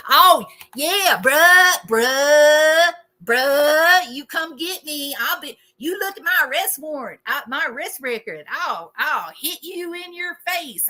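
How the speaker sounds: aggressive creator. Retold or imitated. Mocking a YouTube creator picking fights, aggressive bluster. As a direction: puff up into a blustering brawler.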